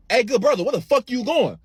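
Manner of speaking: high-pitched mock challenge; high, puzzled friend voice; imitated friend calling out. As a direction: call after someone high and indignant. Friend Baz calls after him.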